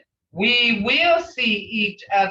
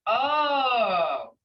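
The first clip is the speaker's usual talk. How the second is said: a hint of a student who forgot; mock forgetful student; much slower than usual. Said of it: "Somebody will say".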